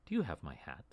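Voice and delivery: breathy close whisper. Acted. GM as elf leaning close, whispering to the ranger. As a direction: lean in and whisper the question. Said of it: "She leans in very closely and she says".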